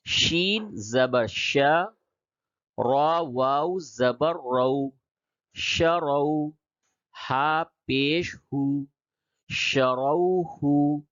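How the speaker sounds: شروہ spelled out slowly with a heavy r; full, thick r. Shown as a demonstration. Teacher showing the full ra, شروہ with thick r. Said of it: "یہ را کو پڑ پڑھیں گے".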